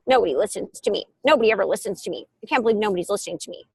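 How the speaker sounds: lightly voiced sulky child. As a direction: whine it like a sulking kid. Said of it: "like when a kid goes like this".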